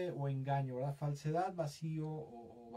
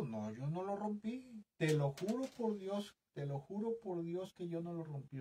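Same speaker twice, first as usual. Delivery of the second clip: higher-pitched, lightly voiced child swearing innocence; child's denial; 4 semitones higher than usual. Child denying to parents that he broke something, lightly acted pleading. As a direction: imitate a kid pleading he didn't do it. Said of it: "yo me acuerdo cuando era niño".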